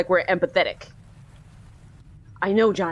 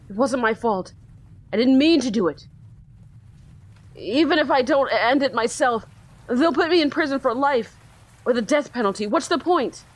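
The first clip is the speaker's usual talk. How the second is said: put-on slightly higher, hopeless young voice; despairing teen boy; 5 semitones higher than usual. Teen on the ledge telling the detective, lightly raised. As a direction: let it sound like no way out.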